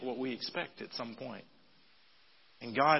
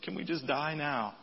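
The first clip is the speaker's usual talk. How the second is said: mock pity prayer; 3 semitones higher than usual. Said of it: "praying prayers like this".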